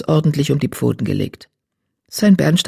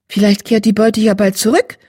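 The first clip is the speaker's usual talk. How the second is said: hopeful; 5 semitones higher than usual. Acted. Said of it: "sagte Distelblatt hoffnungsvoll".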